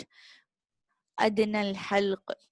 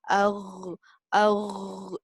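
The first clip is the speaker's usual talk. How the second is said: mild gargling "arr"; gargle sound. Shown as a demonstration. Teacher imitating gargling to explain the Ghain. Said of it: "when we gargle it with water".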